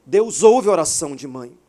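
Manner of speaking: full-force preacher's cry; preaching shout. Real, not acted. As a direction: proclaim it to the whole church. Preacher repeats key line.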